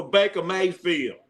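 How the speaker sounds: a little country accent on Baker Mayfield. Shown as a demonstration. Sports host ranking quarterbacks, a little country accent. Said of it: "that little country accent".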